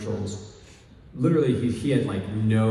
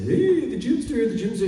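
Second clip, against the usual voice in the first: Second City impression; 12 semitones higher, 5 dB louder than usual. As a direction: overplay it like an improv comic. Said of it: "trying to be a Second City guy".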